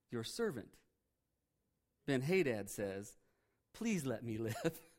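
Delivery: soft, low, meek begging; humbled pleading king. Retold or imitated. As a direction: shrink into a whimpering plea.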